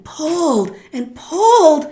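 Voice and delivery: slow, high strained pulling; mock strain of pulling. A narrator's reading. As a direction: strain on every pull. Straining tug.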